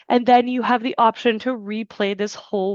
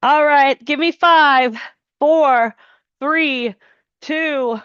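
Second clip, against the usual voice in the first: loud countdown; 3 semitones higher, 3 dB louder, slower than usual. Real, not acted. Coach counting down final seconds.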